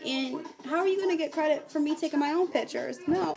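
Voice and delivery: retold indignant refusal. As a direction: put him in his place. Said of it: "I'm like".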